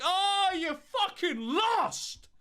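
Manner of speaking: put-on slow, high, cracked old lady voice; a frail old woman croaking out slowly. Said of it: "And they're like".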